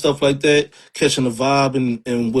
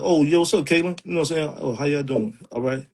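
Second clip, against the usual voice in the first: softer, flat and polite; toned-down hello to coworkers; monotone work voice; 6 dB quieter than usual. Shown as a demonstration. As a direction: keep it toned down for the office. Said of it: "when I speak to them".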